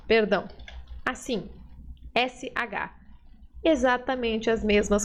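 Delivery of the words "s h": quiet sh sound for S H; soft sh demo. Shown as a demonstration. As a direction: say S H like sh, a bit softer. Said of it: "e pode ser".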